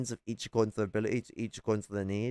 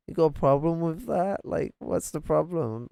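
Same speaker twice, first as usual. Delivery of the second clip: indignant, higher-pitched challenge; real indignation, pitched up; confrontational challenge; 7 semitones higher than usual. Real, not acted. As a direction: throw the question back at a critic. Challenges the man who criticized him.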